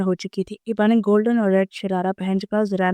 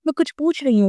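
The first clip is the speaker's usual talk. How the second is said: shouting; 6 semitones higher than usual. A narrator's reading. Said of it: "वो चिल्ला कर बोली".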